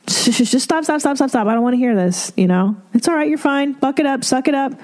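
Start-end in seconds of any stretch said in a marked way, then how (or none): 0.1-2.3 impatient parent. Retold or imitated. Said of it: "parent shutting down crying". 2.9-4.7 dismissive parent. Retold or imitated. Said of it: "parent telling kid to toughen".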